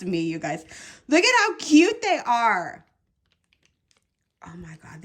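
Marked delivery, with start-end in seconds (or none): 1.1-2.8 high, loud, quick squeal of adoration; excited gushing. Real, not acted. Crafter showing viewers cute crochet hooks, high excited gushing. 4.5-5.0 barely voiced, very soft whisper; awed whisper. Real, not acted. Crafter overcome by her cute new hooks, awed whisper.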